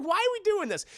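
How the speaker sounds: high, lightly voiced squeamish question; lightly mock-squeamish Kevin. Kevin staring at burnt Michael, high mild disgust. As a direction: recoil at the burnt body. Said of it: "Kevin's like".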